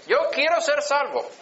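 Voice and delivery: lightly voiced boy insisting he wants salvation; child pleading. Boy repeating his plea to his mother, mild high child voice. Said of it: "Así dije".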